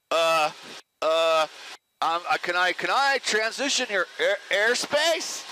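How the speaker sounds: hesitant, unsure, stumbling over words; nervous rookie pilot on the radio; nervous fumbling radio call. Retold or imitated. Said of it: "fumbling around and acting like, you know, a complete dummy".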